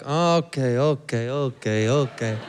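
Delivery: unimpressed staff. Retold or imitated.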